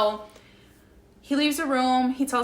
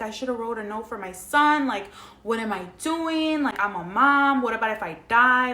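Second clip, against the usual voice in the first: mildly acted panic, growing louder; retold freak-out; 2 semitones higher, 5 dB louder than usual. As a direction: replay a mother's mounting worry. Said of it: "I'm freaking the fuck out".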